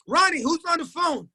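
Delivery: pitched high, calling out the question; mock shouting from across the house; retold yell. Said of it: "they yell".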